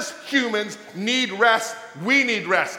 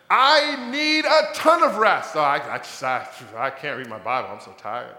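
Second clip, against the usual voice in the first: mock exhausted whiner; 8 semitones lower than usual. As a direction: play the drained Christian moaning about no energy. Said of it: "I'm gonna start calling you "I'm so tired".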